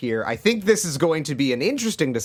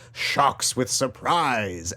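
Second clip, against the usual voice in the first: slow dramatic tagline read; 3 semitones lower, much slower than usual. Acted. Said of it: "this was the tagline they used".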